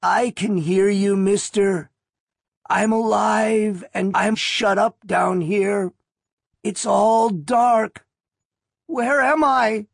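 high, slow, frightened and faint; trapped and panicking, reaching for help; panicked weak voice. Acted. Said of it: "Panic in the dim, lonely voice".

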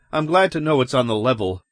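quick, lightly relieved remark. Acted. Man telling cops he is glad, relieved.

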